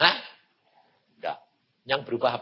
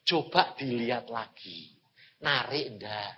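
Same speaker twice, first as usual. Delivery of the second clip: voice of God; 5 semitones lower, 8 dB quieter than usual. Retold or imitated. God's voice retold in sermon.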